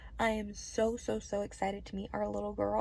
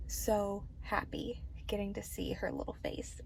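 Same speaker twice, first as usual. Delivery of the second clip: happy whisper; 3 semitones lower, 7 dB quieter than usual. Real, not acted. Whispered happiness.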